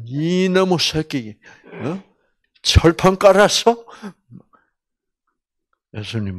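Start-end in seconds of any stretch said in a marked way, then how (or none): 0.1-3.9 mock slapping a shameless traitor; mock angry scolding. Preacher pretending to scold Judas, mock angry.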